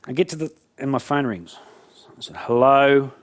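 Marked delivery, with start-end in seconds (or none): 2.4-3.1 drawn-out, annoyed hello; curt annoyance. Acted. Angry speaker answering after being dropped, annoyed. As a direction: answer the phone still cross, holding the word.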